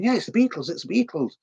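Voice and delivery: very high, thrilled fan squeal; imitating an excited girl. Girl in street interview thrilled about a band, high squeal. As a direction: squeal it like a sixties fangirl. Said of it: "And going".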